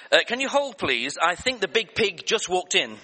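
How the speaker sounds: high, loud, hurried-sounding mock secretary; suddenly eager. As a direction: imitate a secretary jumping at the chance. Secretary suddenly eager at big donation.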